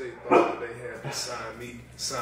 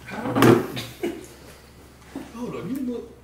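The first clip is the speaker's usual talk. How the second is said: excited fan imitation; 13 semitones higher than usual. Acting out a fan recognizing him.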